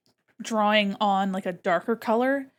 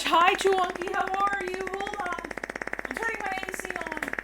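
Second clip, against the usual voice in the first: pet voice; 8 semitones higher than usual. Real, not acted. Greeting a pet in baby voice.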